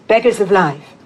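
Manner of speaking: slow, measured poem recital with deliberate pauses; poetry reading. Acted. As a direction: read verse aloud, phrase by phrase. Begins reading second poem.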